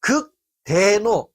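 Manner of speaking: 극대노 dragged out slowly, each syllable leaned on; drawn-out emphasis. Shown as a demonstration. 분노 강도를 강조하며 천천히 늘여 말하듯. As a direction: stretch the word slowly for weight. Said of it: "그냥 분노가 아니라".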